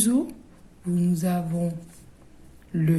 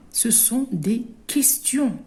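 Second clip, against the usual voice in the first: whispered point; 4 semitones higher than usual. Shown as a demonstration. Teacher whispers key point.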